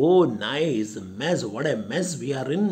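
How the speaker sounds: mildly angry, quick grumbling; angry servant. Acted. Luca grumbling to himself about the visitor, angry. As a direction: rattle off an exasperated complaint. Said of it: "Luca angry".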